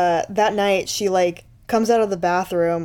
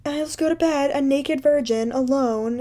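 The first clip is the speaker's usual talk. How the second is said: hammed-up pout; mock pouting girl; 7 semitones higher than usual. Girl sulks at the agent who refuses her, mock pouty and high. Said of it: "she's just like".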